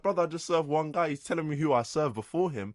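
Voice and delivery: indignant retort; exasperated protest. Retold or imitated. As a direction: push back in annoyed disbelief. Acted protest to the complaining customer.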